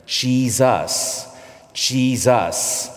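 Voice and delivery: slow, drawn-out "Jesus" with careful sounds; pronunciation drill. Shown as a demonstration. Immigrant child practicing a hard sound over and over, pronunciation drill. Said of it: "I must have said Jesus".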